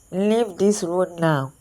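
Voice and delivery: slow eerie nasal ghost voice; strange nasal ghost voice. Acted. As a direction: speak slowly like a nasal spirit. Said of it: "in a strange nasal voice".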